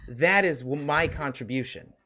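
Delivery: lightly voiced child, lively pitch swings; a hint of a kid lecturing the grown-ups; little child. Child telling the team they are the muscles, lightly voiced kid. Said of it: "voice sounds like that of a little child".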